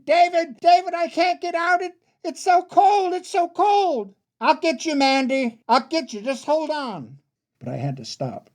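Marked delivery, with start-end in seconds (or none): 0.0-4.2 very high, desperate wail; panicked yelling. Acted. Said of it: "and she kept yelling". 4.4-7.2 high, frantic reassurance; urgent calling. Acted. Brother calls to drowning sister.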